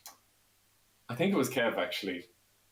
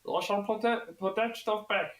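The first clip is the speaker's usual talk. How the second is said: high-pitched caricature of a local shopkeeper; mock shopkeeper with a Kermit the Frog tinge; imitated shopkeeper; 12 semitones higher, slower than usual. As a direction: put on a high, odd shopkeeper voice. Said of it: "your man says to him".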